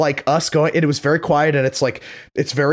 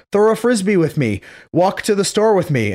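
put-on pleading kid; 8 semitones higher than usual. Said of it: "and I would be like".

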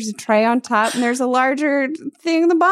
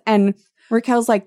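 normal talking voice

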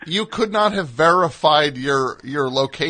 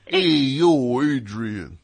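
put-on New York accent; much slower than usual. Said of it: "Not like".

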